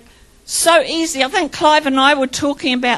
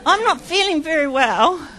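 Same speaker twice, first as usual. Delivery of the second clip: quiet; 6 dB quieter than usual. Retold or imitated. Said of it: "And I'm going".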